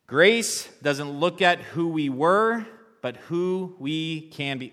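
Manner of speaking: high, loud and slow, leading the crowd; loud call to the congregation. Shown as a demonstration. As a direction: belt it out so the room joins in. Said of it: "let's say that together as we close".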